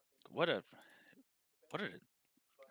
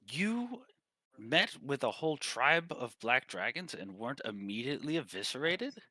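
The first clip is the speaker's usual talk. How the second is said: high, incredulous disbelief; a scholar who can't believe they survived; astonished professor; 4 semitones higher, 4 dB louder than usual. Acted. Professor stunned at the party's survival, high and disbelieving. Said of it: "and he goes".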